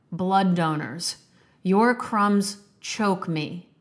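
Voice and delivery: slow, measured recital of a fierce poem; poem reading. Acted. Podcast host reading a poem to listeners, measured recital. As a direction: declaim each line and let the pauses land.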